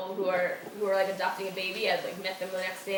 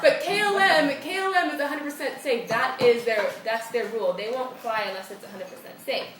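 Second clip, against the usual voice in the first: higher, loud laughing lady voice; mock Dutch airline lady, higher, laughing; European airline lady; 3 semitones higher, 4 dB louder than usual. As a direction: laugh out her corporate promise. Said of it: "European to the core".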